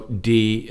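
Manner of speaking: "D" held on a level pitch; long, level "D"; flat tone. Shown as a demonstration. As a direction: keep "D" even, neither rising nor falling. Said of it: "is a flat tone".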